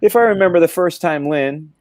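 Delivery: mother-in-law voice. Acted.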